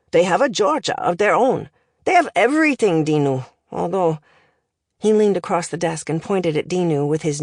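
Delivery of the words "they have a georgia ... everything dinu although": lightly voiced accented professor, lively lilt; language professor. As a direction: deliver it like a pedantic foreign tutor.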